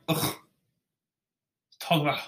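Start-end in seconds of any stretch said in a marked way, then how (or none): 0.1-0.3 a second short fed-up ugh; disgusted groan. Real, not acted. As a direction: grunt out the disgust again. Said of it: "Remember that noise I make now?".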